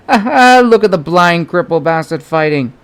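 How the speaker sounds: rowdy bystander mocking the fighter; jeering onlooker. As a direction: heckle from the crowd. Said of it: "said a voice from the crowd".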